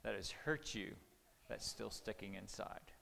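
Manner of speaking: soft, low, sincere; gentle father asking. Retold or imitated. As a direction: gently invite your child to open up. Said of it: "and I asked her".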